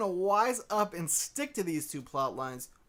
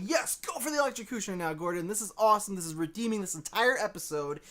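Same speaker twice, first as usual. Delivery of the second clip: cheering; 2 semitones higher than usual. Retold or imitated. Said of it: "I'm like".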